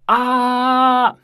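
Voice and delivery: high, loud cry of "啊"; shouted vowel. Shown as a demonstration. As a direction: yell "啊" like calling for help. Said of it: "你要喊救命".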